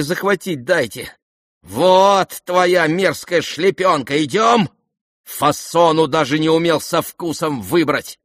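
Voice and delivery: high, loud contemptuous tirade; exasperated scolding. Acted. Lizaveta berating the prince on the way, exasperated. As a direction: berate him as you drag him.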